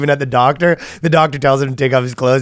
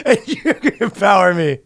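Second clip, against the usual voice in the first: much higher, lively mock teacher; 6 semitones higher than usual. Comic mocking a teacher, higher lively voice. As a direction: hand out empowerment like prizes.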